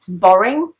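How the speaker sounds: BORING with the R clearly pronounced between the vowels; sounded R. Shown as a demonstration. Teacher shows learners where R is heard, R sounded in BORING. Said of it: "you can hear it, it's R".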